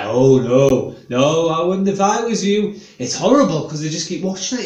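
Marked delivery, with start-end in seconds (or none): 0.0-2.8 odd dentist voice. Retold or imitated. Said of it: "He's got quite an odd voice".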